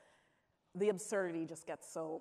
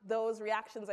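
higher and louder, laugh in the voice; 7 semitones higher, 6 dB louder than usual. Real, not acted. Answering the audience question while still laughing. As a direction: keep talking through the giggles.

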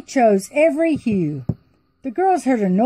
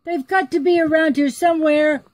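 high, panicked king; alarmed king; 8 semitones higher than usual. Acted. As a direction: cry out in alarm. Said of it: "the king cried in alarm".

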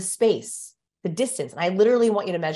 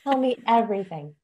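mock intimate bestie; 5 semitones higher than usual. Playing close besties on camera.

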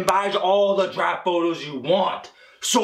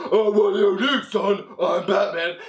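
dad playing a comic superhero; mock vigilante voice from a deluded dad; Batman; 2 semitones higher than usual. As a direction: put on a hammed-up hero voice. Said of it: "He pretends to be Batman".

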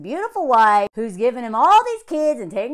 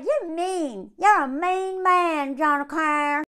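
whiny imitation of June; 4 semitones higher, slower than usual. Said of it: "She's like".

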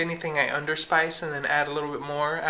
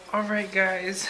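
whisper; 2 semitones higher, slower than usual. Real, not acted. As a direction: whisper it so nobody wakes. Whispering at bedtime.

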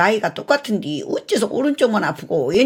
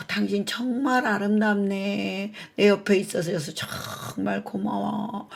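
drowsy tender praise; 4 semitones higher, 3 dB quieter, slower than usual. Acted. Husband waking from anaesthesia, tender.

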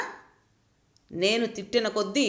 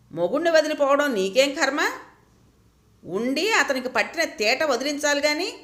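higher, indignant scolding of a friend; angry; 4 semitones higher than usual. Acted. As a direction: scold her friend, a touch heated. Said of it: "కోపంగా అంది ప్రభావతి". (కోపంగా, కొంచెం ఎత్తైన స్వరంతో మందలింపు)

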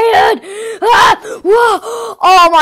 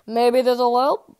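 drawled hopeful musing; slow drawn-out repeat; 5 semitones lower, 6 dB quieter, much slower than usual. Acted. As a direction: stretch out "Maybe this'll help" very slowly. Repeats his hopeful idea.

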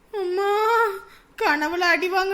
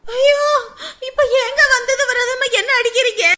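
wailing; 3 semitones higher than usual. Acted. Wife being beaten.

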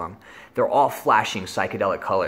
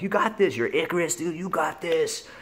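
self pep talk; 7 semitones higher than usual. Retold or imitated. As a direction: talk yourself down, high and soothing.

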